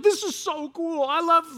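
high, slow, drawn-out enthusiasm; gushing delight. Retold or imitated. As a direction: re-enact being thrilled, pitch way up. Delighted at hearing English accents.

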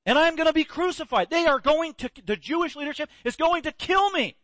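Jesus telling the twelve he'll be crucified; Jesus foretelling. Acted. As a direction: proclaim it dramatically. Jesus announcing his death.

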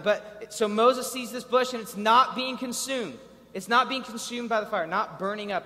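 excited storyteller; amazed. Real, not acted. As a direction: stress not, wide-eyed. Preacher amazed retelling.

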